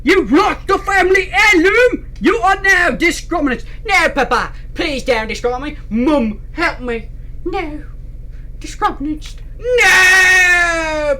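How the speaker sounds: hammed-up parent and crying child; acted family quarrel. Family scolding a son over the lost heirloom, hammed up.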